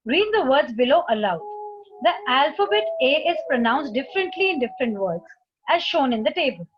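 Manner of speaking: slow, careful reading of an English instruction; slow textbook reading. Acted. Teacher reading the book to students, slowly. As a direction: read it out slowly for the class.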